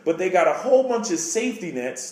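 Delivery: ordinary talk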